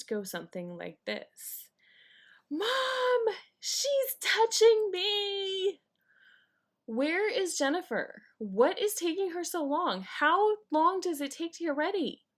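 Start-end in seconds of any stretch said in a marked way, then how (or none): 2.5-5.8 put-on high, loud whiny kid tattling; whiny tattling little sibling. Kid complaining on family vacation. 6.9-12.2 impatient nagging. Retold or imitated. Impatient parent waiting on vacation.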